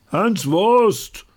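deutlich lauter als zuvor gerufen. Acted. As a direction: die Menge ruft lauter. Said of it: "Jetzt viel lauter". (lauterer Ruf der Menge)

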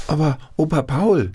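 high, eager grandchild calling grandpa; child's voice. A narrator's reading. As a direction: pitch it up like a small child pleading. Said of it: "fragten seine Enkelkinder". (hohe Kinderstimme, bittend)

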